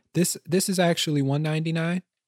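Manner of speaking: gentle, polite, real-nice voice, lifted, without bass. Retelling asking a cashier about a price: imitating himself speaking real nice. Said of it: "take the bass out of my voice".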